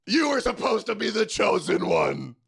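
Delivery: lightly voiced heartbroken mentor; Obi-Wan quote. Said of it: "that was Obi-Wan in Anakin".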